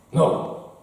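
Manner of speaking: curt refusal in an imitated Chinese accent; lightly imitated Chinese-accented English; mock Chinese accent. Bouncer stopping a customer on the dance floor, mock Chinese accent. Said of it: "I'm doing an offensive accent".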